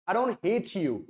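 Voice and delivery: don't lifted and stretched; stress on don't. Shown as a demonstration. Teacher showing learners where the stress lands, on don't. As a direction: hit don't, let the rest fall away. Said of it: "उसे थोड़ा stress देके पढ़ेंगे, थोड़ा loud पढ़ेंगे, खींच के पढ़ेंगे".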